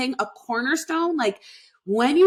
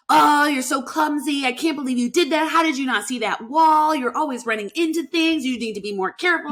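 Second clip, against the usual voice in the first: higher, quicker scolding of yourself; harsh inner critic; 4 semitones higher than usual. Retold or imitated. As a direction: berate yourself like a nagging critic, a bit higher and faster. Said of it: "you call yourself".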